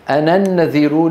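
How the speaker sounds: أنا with its final alif dropped before النذير; linked reading. Shown as a demonstration. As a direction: say أنا النذير joined as ana-nnadhiir. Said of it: "تسقط وصلا".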